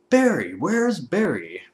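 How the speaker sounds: slow, drawn-out call for a lost friend; calling for Barry. Pretend. Searching the series for Barry, slow plaintive call. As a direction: call out Barry's name slowly.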